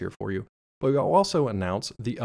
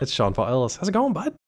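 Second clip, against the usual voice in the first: put-on Canadian greeting, lifting high at the end; terrible Canadian accent; 4 semitones higher than usual. Host introducing his co-host, terrible Canadian accent. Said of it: "That is a terrible Canadian accent".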